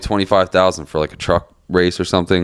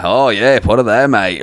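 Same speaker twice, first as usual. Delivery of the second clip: slightly raised, badly faked Aussie; bad Australian accent; 3 semitones higher, slower than usual. Quoting an Australian woman from a comedy bit, bad Australian accent. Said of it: "My Australian accent's shit".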